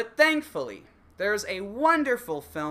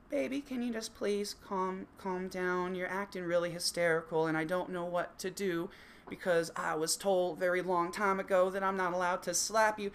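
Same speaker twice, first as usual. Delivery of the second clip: timid pleading; 6 dB quieter than usual. Acted. Meek man pleading in skit.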